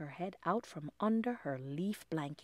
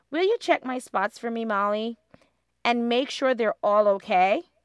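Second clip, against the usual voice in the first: anxious; 2 semitones higher, 10 dB louder than usual. A narrator's reading. Lindy anxious about spots.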